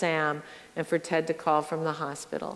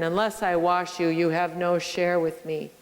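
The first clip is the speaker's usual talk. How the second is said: firm, full-voiced and stern; stern Jesus. Jesus warning Peter, a touch of sternness. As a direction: lay down the condition sternly. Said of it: "sound stern".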